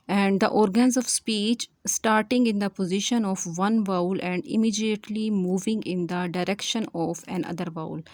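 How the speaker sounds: slow, spaced-out dictation of a definition. Acted. Teacher dictating the monophthong definition to students, slowly and deliberately. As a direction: read each phrase slowly so students can write it down.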